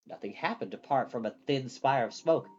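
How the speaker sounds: usual speaking voice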